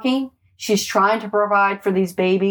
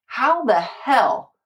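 drawn-out, exasperated disbelief; mildly indignant, slow and drawn out; retold anger; 4 semitones higher, much slower than usual. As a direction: relive the anger, stretching the words. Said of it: "being extremely angry".

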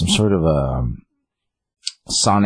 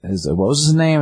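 imitating old man; 4 semitones higher than usual. Old Gramps voiced in recap.

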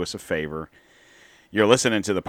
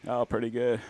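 softer, lightly voiced Bill guest; 3 semitones higher, 7 dB quieter than usual. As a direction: play the folksy guest Bill. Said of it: "Ah, Bill".

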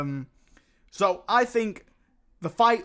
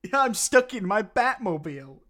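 laughing; 4 semitones higher, 3 dB louder than usual. Pretend. Parody line, laughing.

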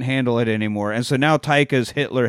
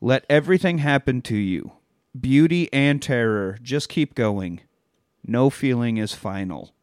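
reading Rilke quote. Retold or imitated. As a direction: read it like a poem's ending. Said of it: "Quote from Rilke".

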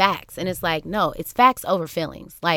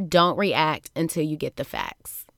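slow, measured "Don't react until you get the facts"; slow, weighted quoted advice; deliberate advice; 2 semitones lower than usual. Retold or imitated. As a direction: spell out the lesson unhurriedly. Delivers the lesson slowly, deliberately.

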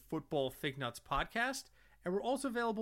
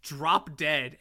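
mock scream; 6 dB louder than usual. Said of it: "the rude old lady screaming".

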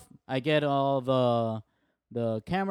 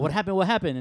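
a mock yell, a bit higher and louder; 5 semitones higher, 3 dB louder than usual. Arriving in the photo room, calling out what happened. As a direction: call out across the room to find out. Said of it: "I yell out".

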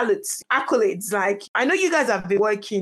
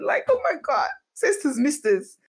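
high, excited oh my God to her listeners; thrilled gush; 4 semitones higher than usual. Real, not acted. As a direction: bubble over with thanks. Overjoyed thanks to listeners.

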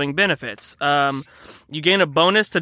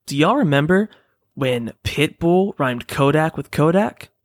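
ad read. Acted. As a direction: sell it like a sponsor. Fake energy drink ad.

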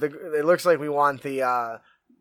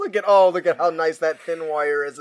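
normal talking voice

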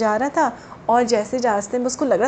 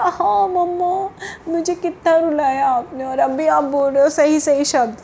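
put-on child whine; 4 semitones higher than usual. Child complains to mom.

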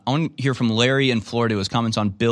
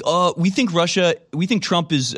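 higher, slower voice playing dumb; mock naive worry; 7 semitones higher than usual. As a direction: sound falsely earnest. Mocking Democrats on Russiagate.

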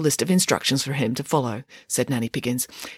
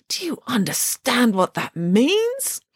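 grave question; 8 semitones higher, slower than usual. Acted. Grieving pig scolds boy.

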